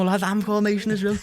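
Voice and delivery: high, excited exclamation to a namesake; high-pitched retold astonishment; amazed reveal. Acted amazed reveal of same name.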